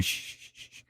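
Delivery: imitating the astronaut shushing his crewmate; urgent shushing. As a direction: hush someone fast in a whisper. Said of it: "You can hear him saying".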